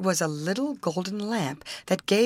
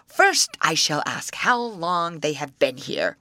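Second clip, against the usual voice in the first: troll voice; 2 semitones lower, 4 dB louder than usual. Acted. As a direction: growl it out like an old troll.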